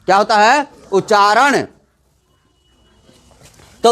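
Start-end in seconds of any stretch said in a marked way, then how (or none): 0.9-1.6 उच्चारण with a full, doubled च; teacher's model उच्चारण, joined च-च then long आ; careful pronunciation. Shown as a demonstration. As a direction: sound out उच्चारण, both च joined and voiced clearly. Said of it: "आधा नहीं बोलेंगे च".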